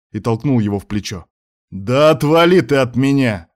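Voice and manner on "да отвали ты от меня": louder, higher furious roar. Acted. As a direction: bellow it at him. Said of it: "взревел Муса".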